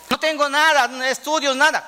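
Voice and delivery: a hint of a whiny preacher making excuses; mock pleading excuse. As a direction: lightly play the man who has nothing. Mimics someone pleading lack.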